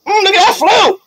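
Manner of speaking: high, purring seductive voice; sultry singer. Acted. GM voicing a singer to the player, sultry and high. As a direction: coo it like a flirty diva.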